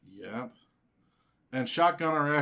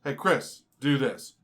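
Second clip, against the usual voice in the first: bossy order; 5 dB louder, slower than usual. Pretend. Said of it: "here's how I picture it in my head".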